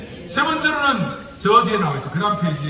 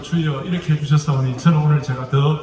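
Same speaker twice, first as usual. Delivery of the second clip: mock prayer; 5 semitones lower, 4 dB louder than usual. Pastor retells his own prayer.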